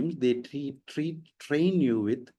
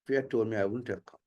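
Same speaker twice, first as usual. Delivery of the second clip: neutral-accented English, evenly delivered; neutralized accent; 3 semitones lower, 4 dB quieter, faster than usual. Shown as a demonstration. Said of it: "So that is neutralized accent".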